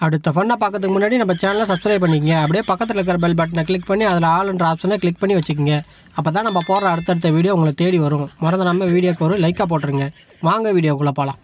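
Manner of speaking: steady host voice, asking for subscriptions; channel promo read. Acted. Host asking viewers to subscribe before the next video, promo read.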